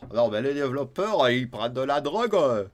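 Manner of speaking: loud, botched attempt at a Perpignan accent; failed Perpignan accent. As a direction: try on a southern French Perpignan accent and miss. (accent de Perpignan raté, voix forte)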